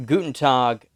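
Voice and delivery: attempted Southern-flavored German; tentative German greeting in Southern accent. Shown as a demonstration. Game master attempting accent on request, German-Southern. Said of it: "German accent that's in a Southern voice".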